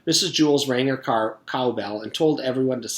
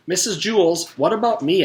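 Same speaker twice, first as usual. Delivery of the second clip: higher, louder insistent demand; 8 semitones higher, 6 dB louder than usual. Acted. Allison demanding the teacher's attention, insistent. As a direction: insist on being noticed. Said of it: "Allison demanded".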